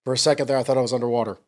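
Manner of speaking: real tears, halting and trailing away; tearful. Real, not acted. Father pausing his daughter's letter to collect himself, tearful. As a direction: stop for tears, then apologise. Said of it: "the tears are".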